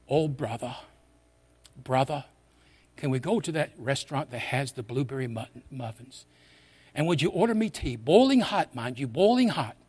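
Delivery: lightly mimicked English accent. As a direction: play a polite Englishman making a request. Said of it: "That's my English accent".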